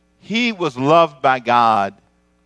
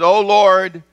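much higher and louder, a fervent pleading prophet; Moses pleading; 9 semitones higher, 7 dB louder, slower than usual. Acted. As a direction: cry out to God in awe. Moses' prayer acted out.

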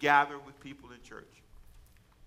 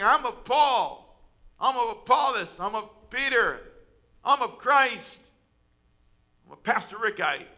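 higher, louder, telling-on-them gossip voice; voiced letter-writing woman; 5 semitones higher, 6 dB louder than usual. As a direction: act out the woman tattling to Paul, louder. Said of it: "A woman wrote a letter".

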